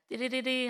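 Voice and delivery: trilled timer alarm; sing-song electronic ringing, done by mouth; imitated timer beep. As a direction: mimic a timer going off.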